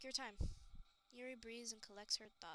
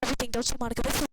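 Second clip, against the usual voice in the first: full-throated furious yelling at Monika; furious screaming; 17 dB louder, much faster than usual. Pretend. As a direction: scream it with pure hatred at the screen. Raging at Monika in the game.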